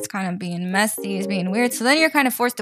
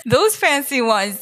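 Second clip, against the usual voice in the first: slow, drawn-out fancy voice; slower than usual. Pretend. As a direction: savour the words like luxury.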